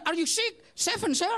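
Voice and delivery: high, bright back and forth; mock punchline. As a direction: snap out the answer. Punchline exchange. (punchline opa dengan suara tinggi)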